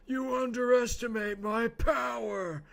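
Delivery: high shouted Anakin, slow; Anakin impression. Streamer shouting an Anakin line for chat. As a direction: yell it like a furious young Jedi. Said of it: "the impressions".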